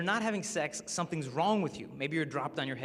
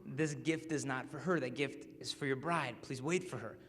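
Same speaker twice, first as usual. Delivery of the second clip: inner voice; 2 semitones lower, 5 dB quieter than usual. Retold or imitated. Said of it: "this voice that just said".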